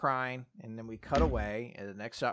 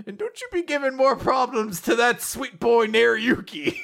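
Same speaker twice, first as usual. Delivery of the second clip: teasing dad; 11 semitones higher, 7 dB louder than usual. Retold or imitated. Dad teasingly warns daughter.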